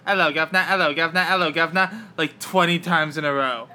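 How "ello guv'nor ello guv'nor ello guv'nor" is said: lightly done amateur Cockney; a hint of chirpy Cockney greeting; Cockney accent. Shown as a demonstration. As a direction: repeat it like a Cockney warm-up drill. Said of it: "I had to do a Cockney accent".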